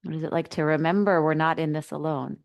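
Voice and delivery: unhurried guide, with long pauses between phrases; settling meditation instructions, spaciously phrased; guided meditation. Acted. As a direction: ease listeners inward, leaving space after each phrase.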